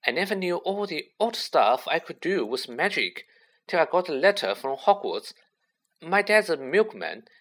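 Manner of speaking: high, breathless-with-wonder fan chatter; excited. A narrator's reading. Colin telling Harry about Hogwarts, excitedly. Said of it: "great shuddering breath of excitement".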